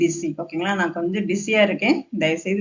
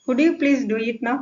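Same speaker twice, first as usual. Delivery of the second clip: slow, higher polite question; polite request; 5 semitones higher, much slower than usual. Shown as a demonstration. Teacher rewords an order for learners, polite request. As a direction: ask courteously, unhurried and lifted. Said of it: "இந்த மாதிரி பொலைட்டா பேசினா".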